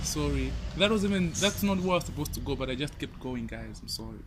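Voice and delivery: high and rambling; stoned, drifting apology. Real, not acted. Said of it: "I'm high".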